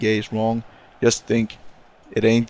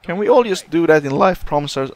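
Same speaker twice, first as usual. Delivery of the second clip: pitched up until the voice cracks; 6 semitones higher than usual. Real, not acted. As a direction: let the voice break mid-plea. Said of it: "my voice crack".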